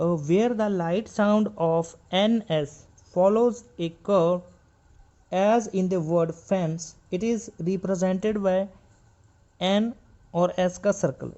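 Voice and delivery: reading the rule slowly word by word; slow textbook reading; slow reading aloud. Shown as a demonstration. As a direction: dictate the textbook line. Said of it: "जैसे यहाँ पे मैं पढ़ रहा हूँ".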